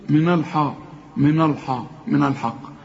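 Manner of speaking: imitating a student's heavy من الحق; wrong heavy letters. Teacher mimics the student's mistake, heavy letters in من الحق. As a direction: thicken the noon and haa in من الحق. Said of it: "غلط".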